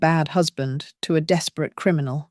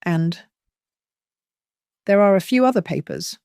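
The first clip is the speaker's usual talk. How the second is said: urgent; 3 semitones higher than usual. Acted. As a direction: push her to come home, pitch climbing. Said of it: "urgency bleeding into his voice".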